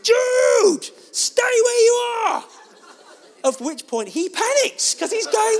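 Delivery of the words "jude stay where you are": put-on high, loud desperate shout to a distant child; panicked father yelling from atop the shelves; shout across the store. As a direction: call out across a crowded room to your lost son. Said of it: "so I just shout".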